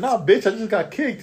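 high, emphatic comeback; sassy retort. Retold or imitated. Guard repeating what he told the clinic girl, emphatic sassy retort. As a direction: insist on every word with attitude. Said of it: "I said, I said".

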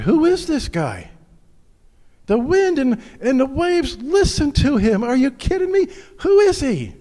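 high, loud, astonished disbelief; amazed disciples. Acted. Disciples in the boat, astonished and loud. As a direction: sound stunned by what you just saw.

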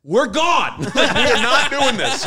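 loud, high, insistent call to the guys; retold alarm, pushing the friends to leave; emphatic urging. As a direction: raise the voice and draw out the decision. Retelling urging friends to flee gun bar.

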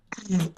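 coughing after choking on wine; clearing the throat after wine went down wrong; choking on a drink. Real, not acted. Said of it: "Me atraganté tomando vino".

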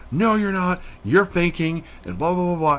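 mock her dismissive accusation; mock accusing boss. Manager accusing of faking.

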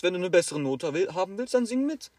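teacher brushes off the student's grade question, loud and high; dismissive teacher. Retold or imitated. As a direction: wave the question away, pushing hard.

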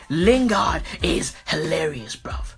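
unvoiced whisper aside. Real, not acted. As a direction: whisper it like a secret. Repeats line as aside.

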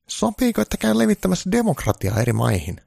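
a needy caricature of Trump; high Trump voice. Acted. Trump begging Santa for good news, high-pitched.

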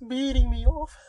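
very high, slow, hammed-up sobbing; mock sobbing. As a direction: wail like you've been dumped. Mock sobbing about being ignored.

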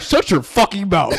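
slow, hammed-up British accent; lightly mocked British telling-off; a hint of put-on British; imitated British accent. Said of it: "Putting that British accent".

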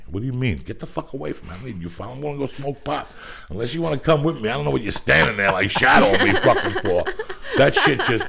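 angry. Retold or imitated. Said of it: "It's like when you do a movie".

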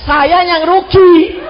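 slow, loud words through laughter; real laughter on the punchline; laughing. Real, not acted. Laughing punchline about old wife.

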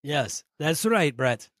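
put-on slow, odd warbled foreign accent; hint of a weird Transylvanian-French accent, drawn out; bizarre made-up accent. Player answers Brett in character, bizarre accent. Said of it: "He's in character".

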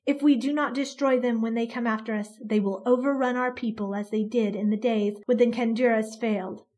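iron voice. Acted. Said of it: "her voice like iron".

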